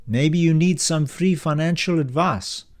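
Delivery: smiling warmly. Acted. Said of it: "Kyle is smiling warmly again".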